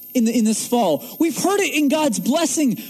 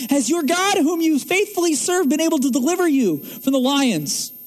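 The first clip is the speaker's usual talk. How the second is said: king calling with hopeful faith, a touch higher; quoted with faith; 5 semitones higher than usual. Retold or imitated. Preacher retelling the king's faithful call to Daniel, mild. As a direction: voice it as a hopeful call, not a doubt. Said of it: "But he says it with faith".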